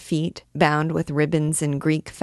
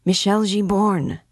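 shouting in his ear; 4 semitones higher than usual. Acted. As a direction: get the dazed man's attention. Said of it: "shouted almost in his ear".

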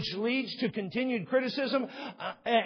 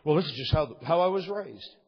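whiny objector; 6 semitones lower than usual. Retold or imitated. Voicing objector's excuse.

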